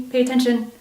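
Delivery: the wound demanding to be noticed; insistent plea. Acted. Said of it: "that old childhood wound that is saying".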